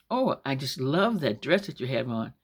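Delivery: mock-gushing, leaning on love; sarcastic flattery. Flattering someone in the same dress, sarcastic. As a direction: lightly overdo the admiration. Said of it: "they use a sarcastic form of flattery".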